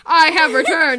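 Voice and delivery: loud mock-grand announcement; mock-triumphant return. Tiger Star announcing his return to camp, hammed-up triumph. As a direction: announce a comeback loudly, hamming it up.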